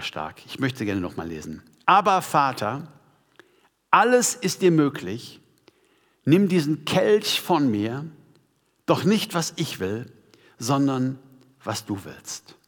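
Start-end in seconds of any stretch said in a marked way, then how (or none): 1.9-12.6 solemn scripture reading. Acted. Preacher rereading Jesus' prayer, solemn and measured. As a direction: let each phrase stand, end hushed.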